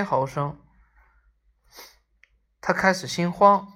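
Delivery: measured, phrase-by-phrase storytelling; story narration. A narrator's reading. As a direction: read the story aloud with deliberate pauses. Reads the story aloud. (故事朗读)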